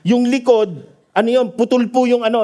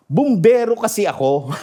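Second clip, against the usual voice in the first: laughing quote. Retold or imitated. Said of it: "Sabi niya ganon".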